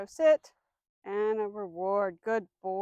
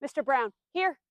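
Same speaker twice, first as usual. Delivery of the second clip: calling the dog; 2 semitones higher, 3 dB louder than usual. Shown as a demonstration. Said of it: "It's gonna look like this".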